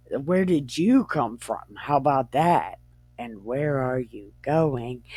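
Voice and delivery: relaxed, casual questioning in an easy pitch; acted chilled-out angel; chilling. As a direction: ask it laid-back and unbothered. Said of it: "he was chilling and he was like".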